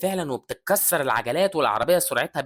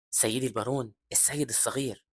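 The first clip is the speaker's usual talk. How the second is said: softly lowered voice, a light stage whisper; 6 dB quieter than usual. Acted. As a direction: confide it quietly, servant to master. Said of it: "وبيهمس له".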